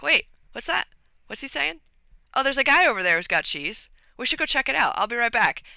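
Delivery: a hint of a curious little rat; lightly voiced nosy rat. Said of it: "enacts this really funny conversation between two rats".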